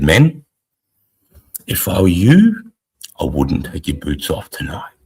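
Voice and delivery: loud, slow warning call from the corporal; corporal's warning. Retold or imitated. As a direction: warn the men, drawn out and firm.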